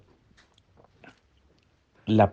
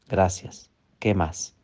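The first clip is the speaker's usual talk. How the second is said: calm grateful reply; 4 semitones lower, 6 dB quieter, slower than usual. Shown as a demonstration. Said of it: "Y tú respondes".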